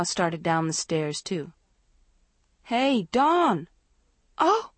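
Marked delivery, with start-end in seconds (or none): 2.6-3.7 calling out. A narrator's reading. Calling to friend on stairs. 4.4-4.7 a sudden high, loud gasp of alarm; jolted cry as her friend slips; startled cry. A narrator's reading. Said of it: "Maggie cried out".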